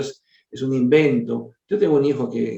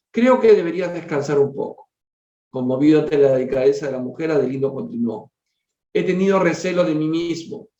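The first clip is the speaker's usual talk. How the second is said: measured, formal reading aloud; story narration. A narrator's reading. Reader telling a family's spiritual story to listeners, story narration. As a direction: read it out as a solemn tale.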